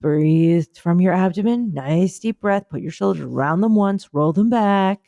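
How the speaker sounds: lightly voiced soothing breathing coach; calm relaxation guide. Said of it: "I was doing the relaxing bit".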